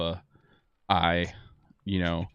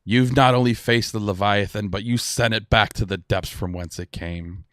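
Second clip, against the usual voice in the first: lightly voiced pirate captain toasting the crew; a touch of grand, rousing speech-making, easing off at the end; proud toast in a light pirate voice; pirate lord's toast; 4 dB louder than usual. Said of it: "He's like".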